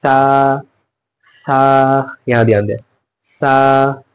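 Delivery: सा with the tongue on the upper teeth, slow; demonstrating the letter for pupils; tongue-between-teeth tha. Shown as a demonstration. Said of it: "जबान को निकाल कर ऊपर के दांतों में सटा करके".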